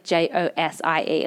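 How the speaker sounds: slow letter-by-letter spelling. Retold or imitated. Spelling her name for Americans, slowly letter by letter. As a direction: spell it slowly for someone not getting it. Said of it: "I have to spell it".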